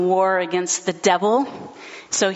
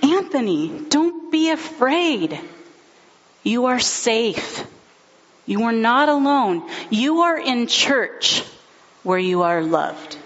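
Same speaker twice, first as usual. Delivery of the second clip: reassuring; 4 semitones higher than usual. Retold or imitated. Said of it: "and she said".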